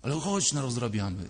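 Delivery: lightly voiced little boy coaxing, falling at the end; little Piotrek. Little boy urges his grown self on, coaxing insistence. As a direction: keep nagging, let it drop into insistence. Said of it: "mały Piotrek i mówi".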